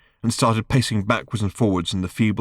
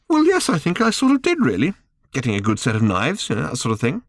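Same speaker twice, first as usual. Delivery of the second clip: Arthur voice; 7 semitones higher than usual. Acted. Arthur answers Ford, high voice.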